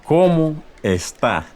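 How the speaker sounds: ¿Cómo está? slowly, stress on cómo; slow formal greeting. Shown as a demonstration. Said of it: "A formal greeting in Spanish would be".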